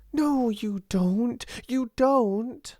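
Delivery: high, emphatic contradiction; insistent interruption. A narrator's reading. Ermengarde contradicting her friend, insistent interruption. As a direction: break in and deny it firmly. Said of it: "Ermengarde broke in".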